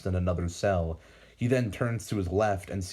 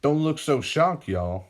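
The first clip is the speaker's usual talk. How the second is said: put-on an old man's teasing voice, higher and louder; old man mocking the stunned heroes; an old villain taunting the speedsters; 7 semitones higher, 5 dB louder than usual. A narrator's reading. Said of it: "the old man tells".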